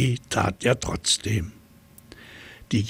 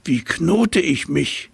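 a lightly voiced, higher giraffe asking; questioning giraffe; 7 semitones higher, 3 dB louder than usual. A narrator's reading. Giraffe asking the monkey how to knot herself, naive. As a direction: ask it earnestly, a bit higher. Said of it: "fragte sie".

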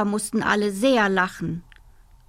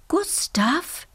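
smiling; 8 semitones higher than usual. Acted. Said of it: "lächelte seine Mama".

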